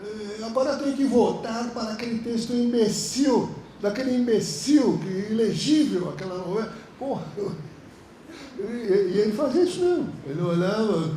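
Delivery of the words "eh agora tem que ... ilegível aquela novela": mock scorn. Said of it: "ele falava".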